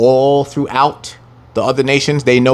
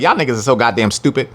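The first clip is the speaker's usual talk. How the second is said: scornful onlooker; 4 semitones lower than usual. Retold or imitated.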